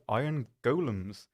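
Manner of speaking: "golems" said slowly with a long OH, as GOH-lums; odd pronunciation of golems. Real, not acted. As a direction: draw out "golems" with a long first vowel. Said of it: "I don't know why I said golem like that".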